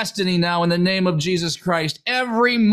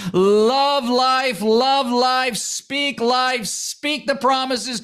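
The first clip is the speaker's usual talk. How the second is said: rising exhortation, higher and driving; preaching; 3 semitones higher than usual. Acted. Preacher urging listeners to speak life, fervent exhortation. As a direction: urge them to speak life.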